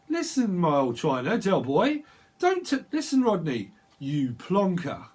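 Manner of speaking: doing a bit from Only Fools and Horses; mock Cockney telling off a brother. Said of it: "This is like Only Fools and Horses".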